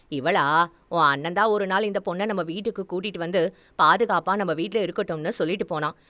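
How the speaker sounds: lightly voiced mother, brisk; Meenambigai, explaining mother. Mother telling daughter about the house guest, brisk. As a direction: explain matter-of-factly at a quick clip.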